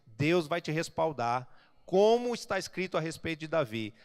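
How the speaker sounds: loud, rising declarations on each blessing; full-force preaching. Acted. Pastor promises the congregation growth, loud preaching. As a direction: preach it out, building to the crowd.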